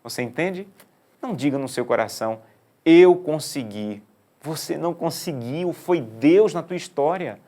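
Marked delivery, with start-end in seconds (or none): 2.8-4.0 slow, loud and high "Eu consegui"; proud boast. Retold or imitated. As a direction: stretch it out smugly. Imita o orgulhoso, lento. ("Eu consegui" alto, lento e orgulhoso)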